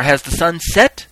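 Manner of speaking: loud, slow public question; calling out. Acted. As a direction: raise pitch and volume like a reaper calling. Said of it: "the appointed reaper called out".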